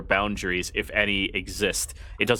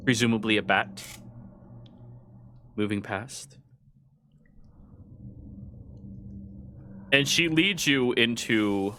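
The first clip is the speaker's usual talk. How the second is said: scene setting narration. A narrator's reading. GM describes the ruined halls.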